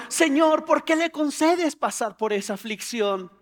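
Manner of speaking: mock indignant plea; complaining to God. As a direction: protest starting high and loud, then easing. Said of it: "te estás quejando".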